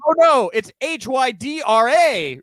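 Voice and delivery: H Y D R A as five separate, emphatic letters; spelled letter by letter. Acted. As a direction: slowly spell H Y D R A in exasperated mockery. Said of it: "You don't say".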